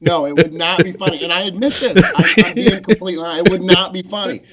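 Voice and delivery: giggly confession; laughing. Real, not acted. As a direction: admit it while still laughing. Admitting it through giggles.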